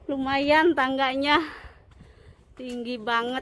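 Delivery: slightly out of breath on the climb; breathy, slow, working up the steps; climbing stairs. Real, not acted. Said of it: "Tangganya tinggi banget ya".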